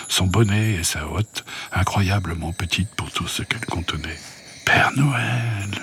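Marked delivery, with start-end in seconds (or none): 4.7-5.7 chuchoté, plein d'émerveillement; murmure. Acted. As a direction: souffler le nom, n'en croyant pas ses yeux. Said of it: "murmura Rosalie". (Rosalie découvre le Père Noël, murmure émerveillé)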